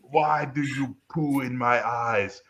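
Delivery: slow, drawn-out mock lament; anguished complaint. Reviewer lamenting over a student's drawings, slow mock anguish. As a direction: imitate an anguished critic, dragging the words.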